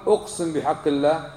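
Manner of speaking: the phrasing to avoid; wrong oath wording. Shown as a demonstration. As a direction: say it as the form he forbids. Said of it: "لا تقل". (الصيغة الخاطئة)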